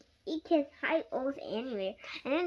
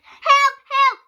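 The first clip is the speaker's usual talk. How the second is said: much higher and louder panicked cries; screaming for help; 14 semitones higher, 18 dB louder than usual. Acted. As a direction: yell for help, terrified of a mouse. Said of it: "she screamed".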